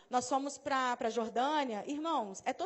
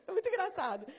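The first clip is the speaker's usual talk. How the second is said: amused, higher voice through laughter; real laughter carried into the words; laughing; 5 semitones higher, faster than usual. Real, not acted. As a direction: say it while still laughing. Laughing at her own anecdote.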